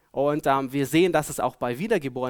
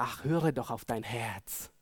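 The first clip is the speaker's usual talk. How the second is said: slower, lower, coaxing imitation of a well-meaning adviser; mock gentle advice; 4 semitones lower, 5 dB quieter than usual. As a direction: lightly put on, the soothing advice he rejects. Well-meant but bad advice quoted.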